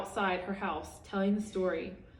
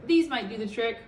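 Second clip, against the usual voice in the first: put-on old woman offering; 2 semitones higher, 4 dB louder than usual. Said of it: "she said".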